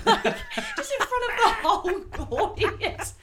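high, laughing delivery towards the end; laughing through words. Real, not acted. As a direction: retell it breaking into laughter. Laughing while retelling the joke.

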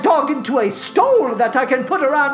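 high, grand opera diva voice; high, lofty prima donna speaking and warbling; Carlotta diva. Acted. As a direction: play the pompous opera diva. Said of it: "I am Carlotta".

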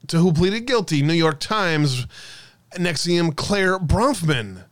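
ordinary delivery

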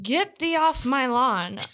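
slow, hint of a fake British accent; lightly affect a Regency British accent; vague put-on accent. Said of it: "you had a vague accent".

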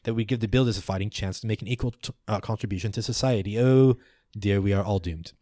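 arguing elder retorting. Acted. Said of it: "The other one shoots back".

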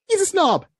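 high, loud scornful repeat; scornful emphasis. Real, not acted. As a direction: hammer home the judgement. Repeats snob judgement, laughing.

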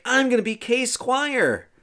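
put-on very high, drawn-out boyish glee; imitated excitement. Arthur learning he will be squire, acted high glee. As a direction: act out an overexcited boy, slow and high. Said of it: "Arthur's all excited".

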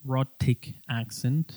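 rhotic accent, slow and careful; slow demo. Shown as a demonstration. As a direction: spell out rhotic accent slowly, English R rolled back. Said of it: "el inglés americano es un rhotic accent".

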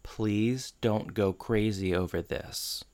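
soft, slow, careful plea; cautious. Retold or imitated. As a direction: tread carefully, softly imitating a cautious request. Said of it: "very, like, cautiously says".

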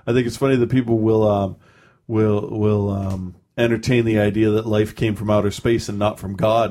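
dopey cartoon bellow; lightly voiced dopey guy; dumb guy voice. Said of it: "I'm using a dumb guy voice".

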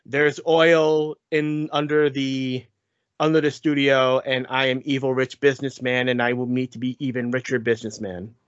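lightly voiced mwahaha villain; hammy mustache-twirling bad guy; sneering panto villain. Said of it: "mustache twirling, mwahaha villain".

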